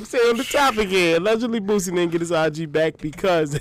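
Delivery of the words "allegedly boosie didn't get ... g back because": words squeezed out through laughter; trying to talk while cracking up; laughing. Real, not acted. Host laughs through the line.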